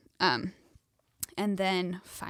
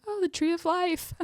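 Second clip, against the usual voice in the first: much higher, louder dreamy awe; delirious wonder; 11 semitones higher, 5 dB louder than usual. Retold or imitated. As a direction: gush like a dazed new mother. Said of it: "I'm, like, so delirious".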